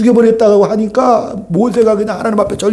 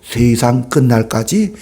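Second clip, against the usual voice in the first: much lower, slow, rising promise; solemn voice of Jesus; 8 semitones lower, slower than usual. Retold or imitated. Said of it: "부활 승천하시면서 뭐라고 하고 가셨어요". (예수님 음성처럼 낮고 느리게 엄숙하게)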